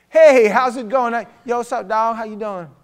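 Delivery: high, loud greeting voice; hammed-up "yo, dog" kid impression; rich kid. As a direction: imitate a Boca kid talking street slang. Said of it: "they talk like this".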